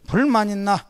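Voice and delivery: put-on asked in a Gyeongsang accent, slow and blunt; Gyeongsang dialect. Husband asks his family in a Gyeongsang accent. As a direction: Gyeongsang dialect, gruff and direct. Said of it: "경상도 버전으로".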